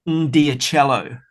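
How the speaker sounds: Ndiacello drawn out slowly, syllable by syllable; slow, careful "n-dee-a-CHELLO" for Ndiacello; tentative pronunciation. Real, not acted. Guest having a go at a hard surname, tentative pronunciation. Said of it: "it's the best I can do".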